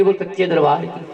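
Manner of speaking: low refrain after the story beat; devotional refrain. Real, not acted. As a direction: let the pitch fall on the call to devotees. Preacher's refrain cueing the congregation.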